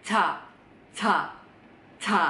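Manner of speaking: "ca" with the tongue of C, voiced towards J; C-J blend. Shown as a demonstration. Teacher drilling Korean J, blended C-J. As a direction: say "ca" halfway between cha and ja. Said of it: "dengungan suara yang kalian keluarin".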